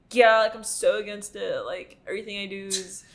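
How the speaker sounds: mock American Valley Girl accent. Mocking pretend anti-capitalists, American voice. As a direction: put on an exaggerated American voice for a quote. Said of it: "when you use that voice".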